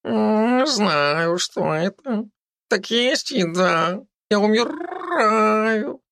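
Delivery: high, slow plaintive cat voice; a starving cat begging for food; whiny cat. A narrator's reading. Talking cat complains to a girl, high whiny begging.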